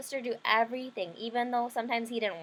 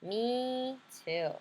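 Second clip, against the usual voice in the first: little sister voice; 2 semitones higher, 3 dB quieter than usual. Acted. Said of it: "my little sister said".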